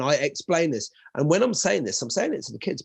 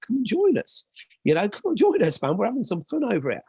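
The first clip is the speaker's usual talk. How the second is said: higher-pitched, cheery invitation; friendly coaxing; 8 semitones higher than usual. Retold or imitated. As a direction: coax a loner into joining the group. Coaxing loner student to join in.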